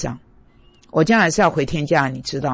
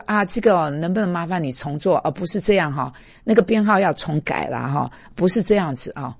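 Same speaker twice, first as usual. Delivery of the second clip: gentle coworker. Retold or imitated. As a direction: coax the colleague kindly. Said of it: "你就是比较温柔".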